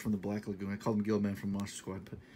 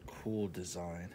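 whisper; 3 semitones lower, much slower than usual. Real, not acted. Admiring whisper to camera.

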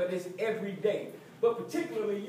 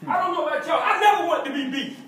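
laughing; 9 semitones higher, 10 dB louder, faster than usual. Real, not acted. Laughing while firing up team.

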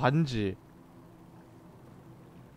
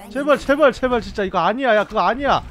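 desperate begging; 9 semitones higher, 8 dB louder than usual. Real, not acted. Begging the game while losing.

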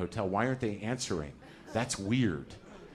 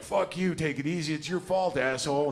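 angry inner voice; 6 semitones higher than usual. Retold or imitated. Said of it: "the other guy's like".

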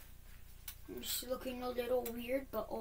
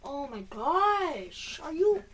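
sudden furious yell, much louder and higher; angry outburst; 6 semitones higher, 11 dB louder, slower than usual. Real, not acted. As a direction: blow up in real frustration at the game. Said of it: "this is making me so mad right now".

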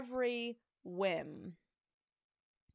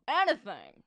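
delighted; 7 dB louder than usual. Acted. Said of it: "asked Principal Krupp with delight".

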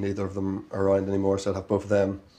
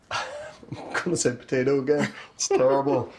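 laughing; 4 semitones higher than usual. Real, not acted. Embarrassed repeat answer, laughing.

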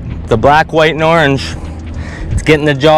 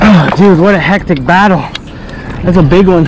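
excited. Real, not acted. Awe at the big fish.

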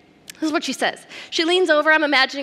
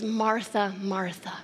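soft, falling to near hush on the second name; a tender, quiet rebuke; softly, fading on the repeat; gentle double naming; 3 semitones lower, 7 dB quieter than usual. Acted. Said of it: "double names her".

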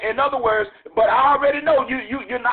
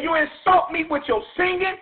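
higher, insistent rebuke, building; Jesus rebuking; 5 semitones higher than usual. Acted. Jesus rebuking the church for empty worship, raised and insistent. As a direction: hammer each you insult me.

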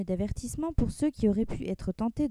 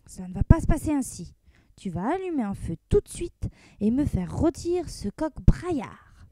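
mildly raised sultan voice; a touch of furious command; crying out. Acted. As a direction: sultan to cook, mild angry exclamation. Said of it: "s'écria".

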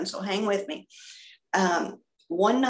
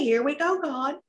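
higher-pitched, tentative going along; uneasy acceptance; 6 semitones higher than usual. Retold or imitated. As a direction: give in with pitch climbing. Nervous reply to God in retold story.

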